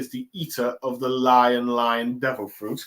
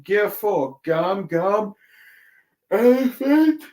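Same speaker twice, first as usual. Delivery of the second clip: higher attack call, rising into a loud shout; Luffy's attack call; 7 semitones higher, 4 dB louder, slower than usual. Retold or imitated. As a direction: build up to the final move name. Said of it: "as he goes like".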